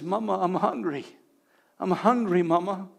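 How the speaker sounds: soft hint of a little child; lightly voiced small child. Healed baby speaking to its mother, softly imitated child. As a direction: imitate a child quietly asking mama.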